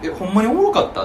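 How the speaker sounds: challenging question. Acted. Repeating his challenge to the fake laugher, mildly incredulous. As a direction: act out questioning someone. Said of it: "って聞くもん".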